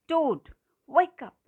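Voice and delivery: loud, high wake-up call. A narrator's reading. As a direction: call to a friend through the door. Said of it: "he called out".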